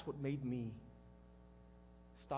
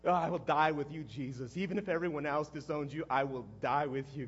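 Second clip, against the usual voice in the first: bitter self-mockery; 3 semitones lower than usual. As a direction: throw your promise back at yourself. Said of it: "God, what a joke".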